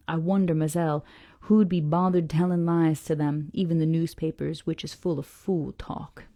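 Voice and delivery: put-on unhurried, folksy Southern accent; old sailor's dialect in an improvised Southern accent. Old sailor answers the young lady, Southern accent. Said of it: "saying it with a southern accent".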